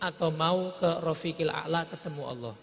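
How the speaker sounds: low, gentle offer of a choice; soft angel voice. Acted. Angel to the Prophet, gentle and low. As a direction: put it to him softly, with respect.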